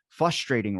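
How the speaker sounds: "frustrating" said without its first R, as "fustrating". Retold or imitated. Friends quote his slip, "frustrating" as "fustrating". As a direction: drop the R after the F in "frustrating". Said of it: "you don't say".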